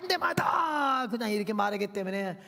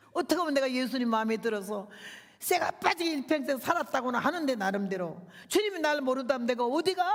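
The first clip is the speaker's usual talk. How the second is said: ordinary talk, nothing marked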